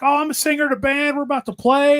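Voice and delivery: hint of a casual musician; singer's voice. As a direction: singer explaining he's about to play.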